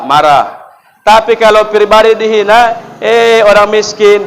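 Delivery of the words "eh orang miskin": drawn-out, higher jeer; mock taunt. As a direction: call it out slowly as an insult. Acting out a personal insult.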